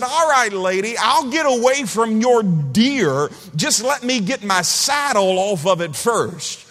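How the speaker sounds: high, loud, drawn-out holler; cowboy calling out. Retold or imitated. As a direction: shout the punchline slowly across a field. Cowboy calls back to yelling wife.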